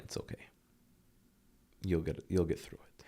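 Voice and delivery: whispered comfort to his younger self; gentle whisper. Retold or imitated. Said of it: "Basically just saying".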